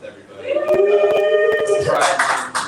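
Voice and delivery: drawn-out, very high and loud celebration; Pride Month cheer. Acted. Comic hypes the crowd for Pride Month, drawn-out and high. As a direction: stretch it out like a party announcer. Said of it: "Give it up for Pride Month".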